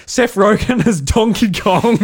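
a hint of a grand reveal; mock announcer. Retelling the casting reveal in a light announcer voice. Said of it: "it keeps going".

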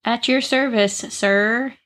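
stiff, slow robot butler voice. Pretend. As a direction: speak like a polite robot servant. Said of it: "Said in a robot voice".

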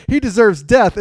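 hammed-up righteous anger; acted outrage. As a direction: pronounce it like an outraged king. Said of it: "He's like".

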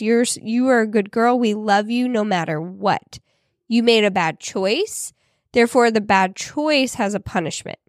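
gentle reframing. Retold or imitated. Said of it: "flipped the script and flipped the wording".

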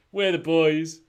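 loud, high cheer on the catchphrase; catchphrase shout. Pretend. Host shouting the show's catchphrase, loud cheer. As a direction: belt the show's tagline.

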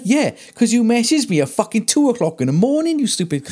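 high exasperated retelling; mock outrage at a late-night client; retold rant. Retold angry comeback to client.

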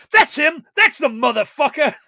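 a witness yelling to the police; shout. Retold or imitated. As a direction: point him out and yell. Accuser shouting on the train.

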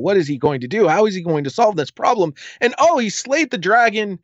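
mock audience voice building from curious to high-pitched excitement; acted inner voice of a gripped audience, rising to a high, thrilled peak; eager audience. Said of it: "they want to know".

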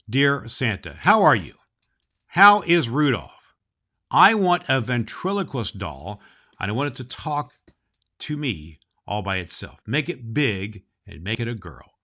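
lightly voiced little girl, eager; child's letter. Santa reads a child's letter aloud, a hint of a little girl. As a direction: read it as a small girl writing to Santa. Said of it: "It goes like this".

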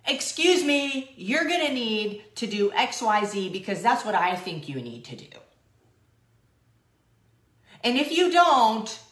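high, loud, prissy complaining; hammed-up needy hyena; whiny hyena voice. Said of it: "a hyena comes up to it and is like".

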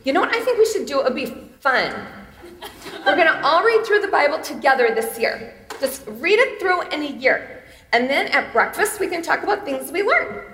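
eager mom proposing a family Bible reading; mom's voice. Retold or imitated. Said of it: "This is my mom".

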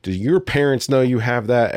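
loud scolding teacher voice; yelling librarian. Retold or imitated. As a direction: scold him loudly. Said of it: "I remember her yelling".

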